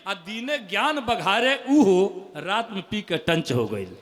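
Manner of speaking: slow recital. Acted. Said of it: "मुक्तक".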